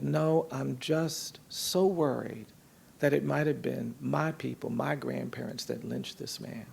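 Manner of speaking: a hint of the weeping man's sorrow; sorrowful. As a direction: let the words drag, heavy with remorse. Crying man voicing his worry.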